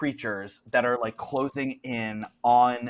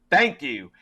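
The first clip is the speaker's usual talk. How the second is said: acted exclamation; 5 dB louder than usual. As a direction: pipe up with a sudden, loud thank-you. Game master voices Jed's cheerful reply.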